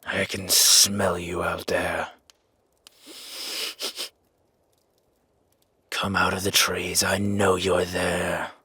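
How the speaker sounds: whispered warning to the trees; menacing whisper. Acted. Calling to someone hidden in trees.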